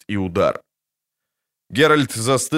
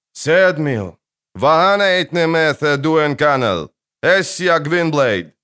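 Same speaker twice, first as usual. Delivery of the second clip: calling out; 5 semitones higher, 4 dB louder, slower than usual. Acted. Calling out to hidden archers.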